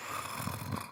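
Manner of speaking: soft, airy sigh. Acted. Scientist after negative results, quiet sigh.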